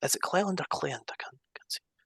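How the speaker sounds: unvoiced, whispered aside.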